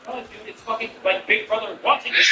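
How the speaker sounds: laughing while quoting them; mock the explanation through laughter. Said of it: "You're like".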